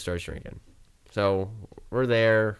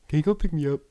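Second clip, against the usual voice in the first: put-on higher-pitched drunk plea; mock drunk request; 7 semitones higher, 3 dB louder, faster than usual. Drunk friend asks for a ride, higher mock drunk plea. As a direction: whine it like the drunk buddy.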